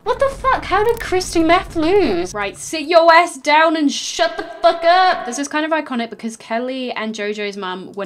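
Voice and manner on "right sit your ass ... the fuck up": mock Abby order. Acted harsh order.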